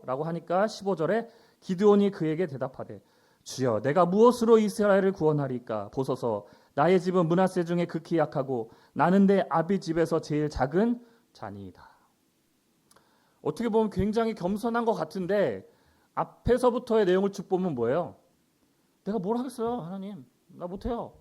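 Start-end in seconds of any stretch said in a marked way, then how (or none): 3.4-11.9 projected Bible reading; declaimed verse, easing at the end; scripture reading. Acted. Reads scripture aloud. 19.0-21.1 mock helpless whine to God; imitated woe-is-me protest; self-pitying lament. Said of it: "신세한탄을 하고 있고".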